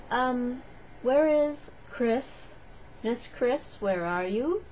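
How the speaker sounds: put-on a teacher peering round the room for a missing girl; puzzled teacher. Teacher asks the class where Chris is, puzzled and slow. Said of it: "suddenly he goes".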